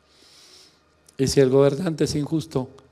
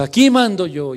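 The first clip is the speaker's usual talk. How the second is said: raised, higher-pitched domestic yell; retold husband's shout; 6 semitones higher, 9 dB louder than usual. Preacher acting out his row with his wife, mock shouting. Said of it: "Le grito yo a mi esposa".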